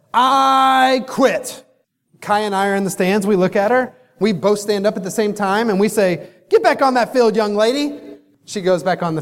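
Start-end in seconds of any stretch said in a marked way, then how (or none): 0.1-1.6 put-on higher little-girl voice, pouting "I quit"; sulky kid's quit. Daughter storms off the field. 6.5-8.0 parental order. Retold or imitated. Both parents stand and order her.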